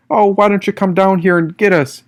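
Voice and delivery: loud, high taunt thrown up at the wall; taunting yell. A narrator's reading. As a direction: dare them to come down, shouting. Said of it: "yelled Jane".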